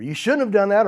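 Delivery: judgmental. Acted. Reacting to someone's situation by judging, mock scolding. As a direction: act out a judging reproach. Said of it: "judging someone's situation".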